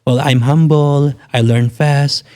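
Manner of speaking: slow, timid job interview voice; meek humble applicant. Retold or imitated. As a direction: play it humble and eager to please. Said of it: "nung nagsisimula ako ng first ten". (mahinhin at mabagal na boses ng aplikante)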